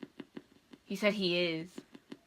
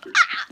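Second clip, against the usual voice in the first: mock scream; 10 dB louder than usual. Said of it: "And we will go".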